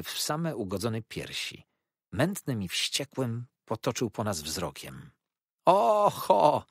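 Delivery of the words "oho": a sudden high hiss of alarm; startled villain hissing ambush. A narrator's reading. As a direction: spit out the word ambush. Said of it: "syknął".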